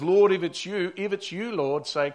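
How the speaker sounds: mock yell across the waves, easing off; half-shouted call. Peter calling to Jesus through the storm, half-shouted. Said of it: "He's shouting out because across the wind and the waves".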